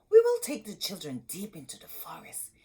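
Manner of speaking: hushed, plotting stepmother; scheming stepmother. Acted. Stepmother whispering her plan to the husband. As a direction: plot the abandonment in a hush. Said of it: "said the children's stepmother".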